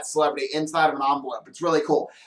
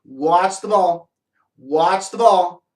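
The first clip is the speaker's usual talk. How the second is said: slow "Watch the ball" stretched out; slow hypnotic patter; slow coaxing; much slower than usual. Shown as a demonstration. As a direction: lull the puppet with it. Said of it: "So I take a ball and I say".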